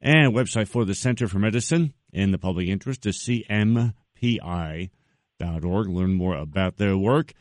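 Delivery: even newsreader delivery, easing down at the end; news plug read. Real, not acted. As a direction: read out the website like a news presenter. Presenter reads out guest's website plug.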